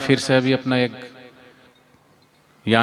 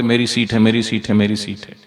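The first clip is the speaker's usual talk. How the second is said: mock insistence. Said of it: "आए थे तब बोले थे".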